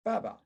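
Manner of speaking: BAba, first syllable strong; strong-weak syllable drill; stress demo. Shown as a demonstration. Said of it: "a two syllable word like this".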